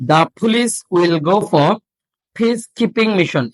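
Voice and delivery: very slow, deliberate reading with breathy stops; slow drill. Shown as a demonstration. Teacher slowly modelling a question for students. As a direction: read it slowly, puffing each stop. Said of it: "আর উচ্চারণ হচ্ছে না".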